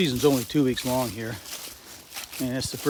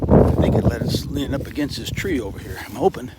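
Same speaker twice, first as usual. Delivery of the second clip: talking while chewing gum; words round a piece of gum; 5 dB louder than usual. Real, not acted. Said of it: "Can't talk and chew gum at the same time".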